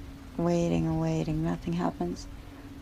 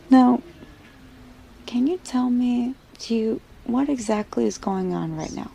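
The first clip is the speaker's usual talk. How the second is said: firm demand; 6 semitones higher, 4 dB louder than usual. Acted. Doctor pressing the wife.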